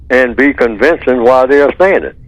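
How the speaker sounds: normal talking voice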